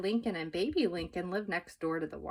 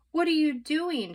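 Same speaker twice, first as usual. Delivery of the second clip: higher, louder alarmed shout; startled shout; 9 semitones higher, 6 dB louder than usual. A narrator's reading. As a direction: yell in surprise from the wheel. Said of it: "shouted Mister Watson".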